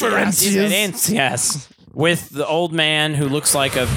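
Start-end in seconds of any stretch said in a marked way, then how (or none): 0.0-1.7 slow, drawn-out mock Spanish word. Friends riffing on the movie, mock Spanish. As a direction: stretch it like a fake Spanish word.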